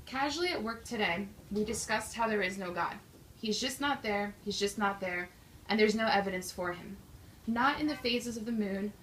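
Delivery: measured, projected poetry reading; poem recitation. Acted. Poet reading own poem to a live audience, measured recitation. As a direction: recite it line by line with deliberate stresses.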